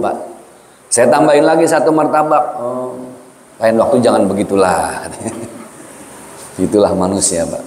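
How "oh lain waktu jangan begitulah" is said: softened friend. Retold or imitated. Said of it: "Mulai melembut".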